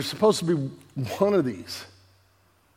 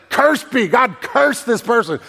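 higher, pushed mock curse of a superstitious mother; hammed-up higher curse on the thief; mother cursing; 5 semitones higher than usual. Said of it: "And it's just like".

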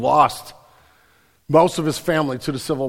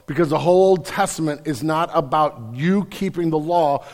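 ordinary talk

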